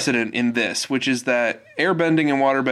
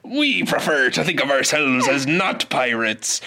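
pirate voice. Retold or imitated. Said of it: "they're like".

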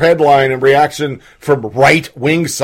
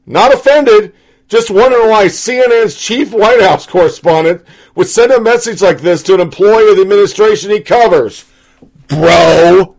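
indignant; 5 semitones higher, 4 dB louder than usual. Retold or imitated. Quoting indignant reply.

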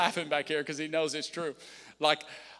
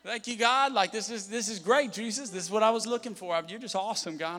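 sarcastic thanks. Pretend. Pastor parodying praise in hard times, sarcastic. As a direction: overdo the gratitude, tongue in cheek. Mock grateful prayer continued.

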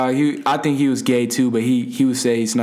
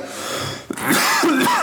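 high-pitched spluttering heave; imitated vomiting. Drunk friend still puking in car, mock splutter. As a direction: mimic a spluttering puke.

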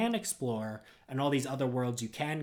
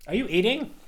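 surprised; 8 semitones higher, 7 dB louder than usual. Real, not acted. Surprised sudden question.

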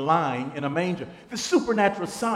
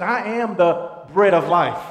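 proclaiming; 7 dB louder than usual. Acted. Quoting Jesus with force.

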